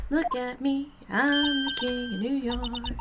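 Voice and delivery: slow, swaggering New York voice; a lightly put-on New York tough guy; New York accent. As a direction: boast slowly in a mock New York accent. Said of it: "He's supposed to be from New York!".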